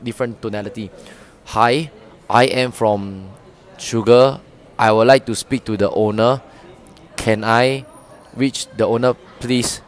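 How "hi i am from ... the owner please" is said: monotone cold call, slow; flat tone-deaf pitch. Shown as a demonstration. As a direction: read it flat with no tune. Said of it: "someone who's, like, tone deaf".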